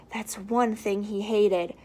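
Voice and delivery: lively storybook read-aloud; reading to children. A narrator's reading. Teacher reading the Grinch to children, lively storybook voice. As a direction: read it out like story time for little ones.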